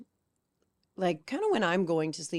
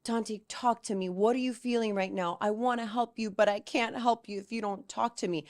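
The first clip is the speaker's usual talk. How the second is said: lightly voiced child urging a sibling, pitched up; pleading big brother; 4 semitones higher than usual. Older son begs his crying brother to talk, gently pleading.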